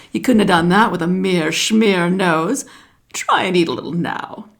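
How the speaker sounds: put-on the wise old snake giving advice; lightly voiced python snake.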